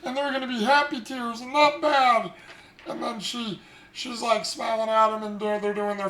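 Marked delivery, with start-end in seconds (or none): 0.0-2.3 excited Edward. Retold or imitated. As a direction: rush it out, fired up.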